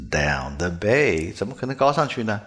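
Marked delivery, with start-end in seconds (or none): 0.1-1.3 "down the bay" slow and low, with voiced d and b; "down the bay" with the vocal cords buzzing on the d and b; "down the bay" drawn out and low, with voiced consonants. Shown as a demonstration. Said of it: "是不是声音低低的".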